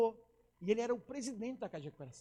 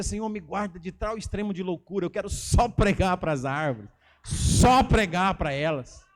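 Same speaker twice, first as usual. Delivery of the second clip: loud, lowered voice slowing into drawn-out words; fervent plea; 2 semitones lower, 12 dB louder, slower than usual. Retold or imitated. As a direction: mock-desperate prayer at full volume. Acted fervent plea to God.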